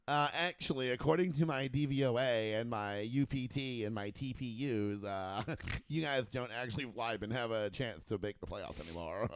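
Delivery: a hint of a smug analyst correcting you; mock nerd. Podcaster mocking a stats nerd, lightly voiced know-it-all. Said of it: "by some fucking nerd".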